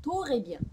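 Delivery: "トレビアン" with an O between T and R; "トレビアン" opening on a full "to" syllable; vowel-inserted mispronunciation. Shown as a demonstration. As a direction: say "トレビアン" as to-re-bian. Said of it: "母音が入っちゃうんですね".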